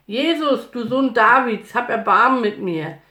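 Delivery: high, loud insistent cry; full-voiced begging call. A narrator's reading. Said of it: "schrie nur noch lauter".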